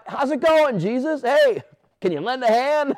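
high, breezy greeting, laughing; mock casual greeting. Pastor pretending to greet Jesus on the water, mock breezy. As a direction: greet him like a neighbour passing by.

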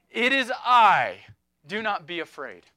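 Jesus calling to the disciples, loud then settling; bold reassurance. Acted. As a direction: proclaim it over the storm, then soften. Preacher voicing Jesus in storm.

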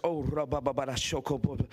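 quick murmured tongues under the breath; praying in tongues. Retold or imitated. Preacher praying in tongues behind the counter. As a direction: slip into tongues to hold your peace. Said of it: "I began to pray in the Holy Ghost".

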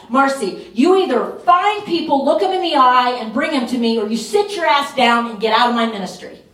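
fired-up divine reprimand, a hint of a voiced God; God's stern rebuke. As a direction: scold like God giving a final ultimatum. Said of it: "That's exactly how he said it to me".

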